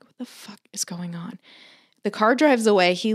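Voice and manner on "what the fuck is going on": breathless unvoiced whisper. Watching a strange car by the neighbor's house, whispered. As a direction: hush it so nobody outside hears.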